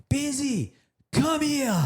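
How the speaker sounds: high friendly calling voice; high warm call from a rival; mock Jeremy. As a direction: call him over like a mate. Jeremy calling him over.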